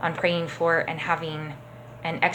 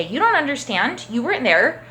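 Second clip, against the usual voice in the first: higher-pitched mock protest; defensive retort; 4 semitones higher, 3 dB louder than usual. Teacher imitating someone accused of doing something, mildly defensive. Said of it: "we can yell, we can get angry".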